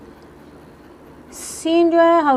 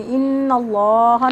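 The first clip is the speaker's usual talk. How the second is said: slow recitation demo; 3 dB louder, much slower than usual. Shown as a demonstration. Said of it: "नून मुशद्दद का गुन्ना हो रहा है".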